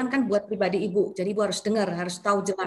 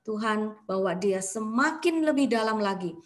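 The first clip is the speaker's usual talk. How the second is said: fervent prayer; 3 dB louder than usual. Acted. Prays aloud for the woman.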